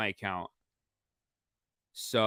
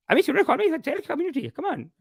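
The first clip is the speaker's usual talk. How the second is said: much higher, louder complaining auntie; gossiping aunties, louder; 13 semitones higher, 4 dB louder than usual. Retold or imitated. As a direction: whine it like an offended relative. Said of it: "They're saying".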